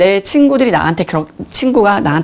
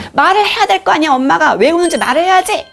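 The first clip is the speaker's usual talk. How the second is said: much higher, insistent scolding; mock angry scolding; 11 semitones higher than usual. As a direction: demand an answer from a crying child. Mother scolding her crying child. (우는 아이에게 엄마가 다그치는 높은 꾸중)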